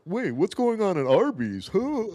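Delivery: high-pitched, dumbly astonished influencer; mock influencer. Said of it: "so influencer-y and fucking dumb".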